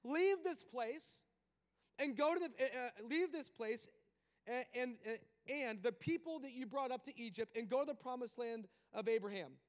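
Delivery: loud, high booming God voice; a big preacher's voice of God sending Moses out; God's voice. Acted. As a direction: proclaim it as God commanding Moses. Preacher voicing God's command.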